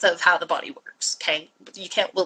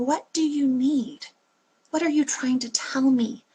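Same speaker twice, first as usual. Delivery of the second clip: gentle caring question; 3 semitones higher than usual. Pretend.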